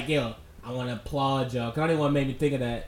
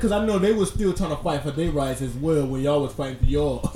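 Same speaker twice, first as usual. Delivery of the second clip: high, loud laughing retelling; 5 semitones higher, 3 dB louder than usual. Real, not acted. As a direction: laugh through the quote. Laughing retelling friend's quote.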